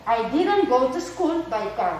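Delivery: slow, careful English answer; slow model answer. Shown as a demonstration. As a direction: read the negative answer out slowly. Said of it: "Fíjense que dice".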